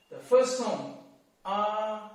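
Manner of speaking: first tone on R. Shown as a demonstration. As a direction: sing R flat and even. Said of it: "Let me take R as an example".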